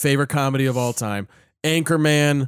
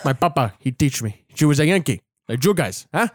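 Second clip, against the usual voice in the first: put-on a light Tony Montana Cuban accent; understated Cuban accent impression. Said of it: "his accent, my friend".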